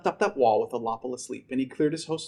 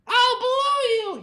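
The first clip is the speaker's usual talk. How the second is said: high, slow, loud threat; villain yell; 5 dB louder, much slower than usual. Acted. Vanitch threatens grandpa on the wall, high slow yell. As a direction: bellow it with glee. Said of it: "he yelled".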